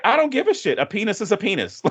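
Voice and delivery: high, careless mock bravado; blunt Dawn quote. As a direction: toss it off like it's obvious. Voicing Dawn's blunt line.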